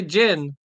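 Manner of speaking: gin said as "jen", for gene; deliberate mispronunciation. Shown as a demonstration. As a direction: say gin with a short vowel instead of gene's long ee. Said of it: "he doesn't say gin".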